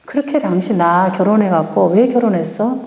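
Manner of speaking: sarcastic demo. Shown as a demonstration. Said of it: "이렇게 하는 게 아니라".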